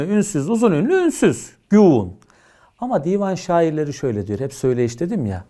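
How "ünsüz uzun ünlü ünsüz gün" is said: syllable pattern demo. Shown as a demonstration. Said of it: "yarla aynı değil mi".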